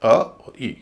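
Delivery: अ and ई each short and separate; light vowels. Shown as a demonstration. Teacher sounding out unstressed syllables, light vowels. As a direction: say अ, then ई, as isolated vowel sounds. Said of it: "इसीलिए इनको बोला जाएगा".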